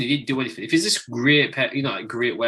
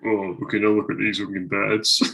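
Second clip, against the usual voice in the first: hushed nature documentary; 3 semitones lower than usual. Pretend. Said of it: "imagine him narrating, like, a nature documentary".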